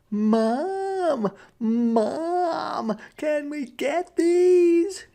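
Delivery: put-on high, pleading child's voice; pleading little rabbit. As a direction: beg Mom like a small kid. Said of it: "Jasper pleaded".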